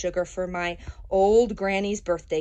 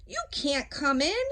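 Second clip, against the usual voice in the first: a hint of a higher, bossy pig; pig yelling back; 5 semitones higher than usual. Pig shouts at the wolf through the door, lightly voiced. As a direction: shoo the wolf off, mildly mock-yelled. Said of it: "He yelled back".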